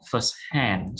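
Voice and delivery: "First hand" with the weight on "hand"; stress on HAND. Shown as a demonstration. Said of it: "Stress on hand".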